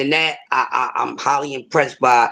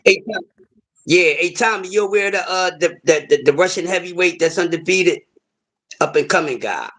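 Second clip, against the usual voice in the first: raised pitch, asking for help; higher-pitched call across the room; calling out to someone; 4 semitones higher than usual. Real, not acted. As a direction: call over to a colleague with a question. Calls off to Tommy for help.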